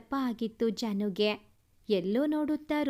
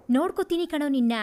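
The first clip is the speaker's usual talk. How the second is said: louder, fast spat-out threat; angry threat; 6 dB louder, much faster than usual. Acted. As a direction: fire it back at him, quick and hard. Goon threatens Dheeru after fight. (ಸಿಟ್ಟಿನ ಜೋರು ಬೆದರಿಕೆ)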